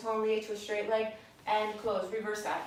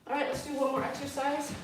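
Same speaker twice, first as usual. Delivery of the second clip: out of breath from jumping; counting while jumping; doing jumping jacks. Real, not acted. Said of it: "it's hard to talk and jump".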